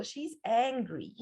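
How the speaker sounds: ANGRY drawn out slowly; stress on ANGRY. Shown as a demonstration. Teacher explaining you're in trouble, stress on ANGRY. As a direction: stretch the word ANGRY for emphasis. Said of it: "the accent goes to angry".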